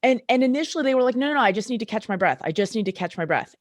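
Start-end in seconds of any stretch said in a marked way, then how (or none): 1.1-2.4 quick, light imitation of a thick Australian accent. Injured Australian player insisting he's fine, light Australian accent. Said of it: "in a very thick Australian accent". 2.4-3.5 put-on light, understated Australian accent on the repeat; a hint of an Aussie player shrugging it off. Injured Australian player repeating he's fine, faint Australian accent. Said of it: "in a very thick Australian accent".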